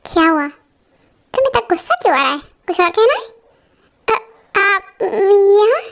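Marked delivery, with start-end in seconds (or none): 4.1-5.8 startled. Acted. Surprised he overheard.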